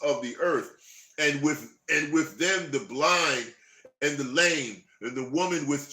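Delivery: slow, solemn Bible reading; scripture reading. Acted. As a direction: read it out like a preacher. Reads scripture aloud.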